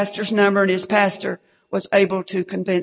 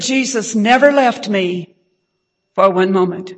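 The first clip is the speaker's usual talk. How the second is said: said out firm and a bit raised, ringing on "never"; proclaimed quote; 4 dB louder than usual. Retold or imitated. Preacher quoting the rescued brother, firm and raised. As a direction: declare it like a testimony. Quoting the tortured man's faith.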